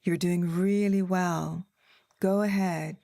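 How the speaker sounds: slow, flat understated coach; a mild hint of an unexcited British app voice; lightly voiced deadpan British coach; low-key British voice. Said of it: "not a lot of inflection in his voice".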